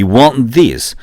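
"want this" linked without a vowel after t. Shown as a demonstration. Teacher models correct English for learners, "want this" without the teu. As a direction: join "want this" as wand-dis. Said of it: "영어는 으 발음이 없습니다".

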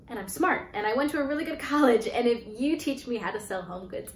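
building from earnest pitch to desperate plea; pleading. Retold or imitated. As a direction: sell yourself harder and harder. Pleading her case in retold interview.

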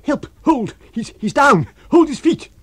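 frantic high shouting; screaming. A narrator's reading. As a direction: scream for help mid-fight. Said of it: "screamed Kemp".

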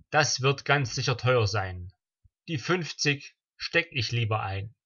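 measured rhymed-verse recital, pausing between couplets; deliberate, evenly metred delivery of comic verse; poem recitation. Acted. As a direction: recite a celebratory party poem line by line.

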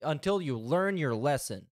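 lightly voiced telling-off of a naughty child; mock scolding parent. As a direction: playfully lecture like a stern parent. Commentator plays scolding parent to streamer.

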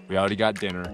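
normal talking voice

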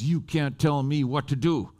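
mildly bristly, each word deliberate; bristly retort. Retold or imitated. Woman retorts to the preacher, mildly bristly. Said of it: "she got really bristly".

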